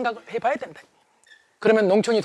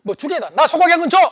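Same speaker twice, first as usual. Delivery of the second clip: barked demand, louder and higher; rough order; 5 semitones higher, 4 dB louder than usual. Acted. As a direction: snap the order at the butcher. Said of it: "아주 거칠게 말을 했습니다".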